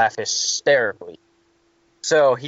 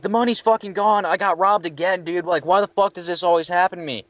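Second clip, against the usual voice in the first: higher, whiny mock panic; imitating panicked clerk; 5 semitones higher than usual. Third shifter telling the maintenance guy he got robbed, higher mock panic.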